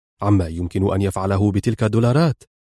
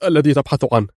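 higher, eager, rushed informer voice; full of excitement; 5 semitones higher, 3 dB louder, faster than usual. A narrator's reading. The henchman tells Pancho about the Egyptian, higher and excited. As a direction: spill the key news eagerly. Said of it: "بلهجة تحمل كل انفعاله".

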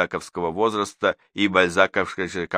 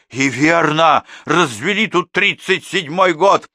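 higher, louder indignant outburst; indignant agreement; 9 semitones higher, 7 dB louder, slower than usual. A narrator's reading. Second mother agrees with her, loud and indignant. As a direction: back her up furiously.

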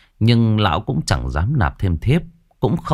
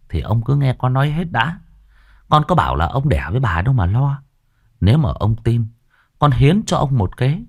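higher, coaxing sly servant; eager servant; 4 semitones higher than usual. Acted. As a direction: sell the scheme. Sửu pitching his plan eagerly. (giọng đầy tớ ranh mãnh)

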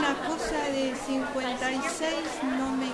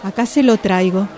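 loud call from afar; 4 semitones lower, 11 dB louder than usual. Acted. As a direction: shout it to a customer out of sight. Shopgirl calling across the store. (la vendedora avisa a los gritos)

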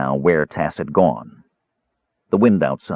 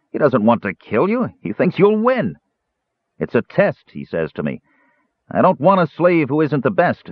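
higher dwarf voice, amused and gloating; 8 semitones higher than usual. Acted. Dwarf relays master's test to Caramon, higher gloating voice. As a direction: relish the master's cruel plan.

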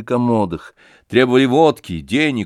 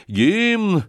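lone unsure shout; 10 semitones higher than usual. Acted. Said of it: "крикнул вдали одинокий, неуверенный голос".

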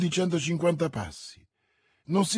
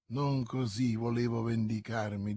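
softer, lower, smiling menace; infernal smile; 4 semitones lower, 6 dB quieter than usual. A narrator's reading. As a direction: savour the revenge with a smile. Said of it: "con un sorriso infernale". (sorriso infernale, voce bassa e cupa)

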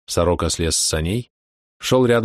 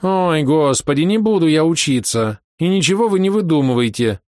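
capricious peasant-woman voice; 9 semitones higher, 3 dB louder than usual. A narrator's reading. Vera refusing to study, capricious whiny woman's voice. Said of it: "капризным бабским голосом".

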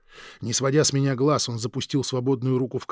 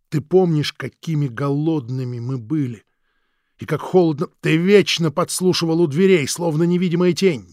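raised, louder reproach; resentful brother; 4 semitones higher, 6 dB louder than usual. Acted. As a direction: needle him with old resentment. Krik's raised accusing voice.

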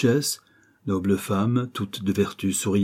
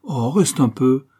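insisting; 4 semitones higher, 4 dB louder, slower than usual. Acted. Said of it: "insistait Gisèle".

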